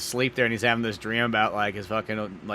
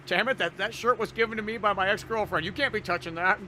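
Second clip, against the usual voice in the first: mock indignation; 9 semitones higher than usual. Acting upset man about his shirt.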